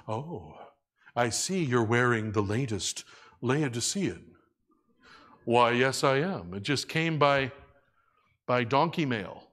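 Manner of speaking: lightly put-on English accent. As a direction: play a proud cloak owner with a mock English accent. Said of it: "I have an English accent when I'm doing this impression".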